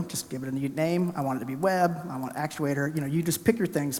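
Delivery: ordinary talk, nothing marked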